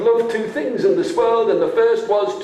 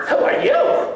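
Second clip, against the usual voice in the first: put-on high child's voice asking; young children calling out to the stranger. Children asking the stranger, high and curious.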